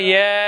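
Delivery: ইয়া added wrongly after হুদা; wrong version. Shown as a demonstration. Teacher showing viewers the wrong ending ইয়া. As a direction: say ইয়া as the mistake to avoid. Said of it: "ইয়া বলবেন না".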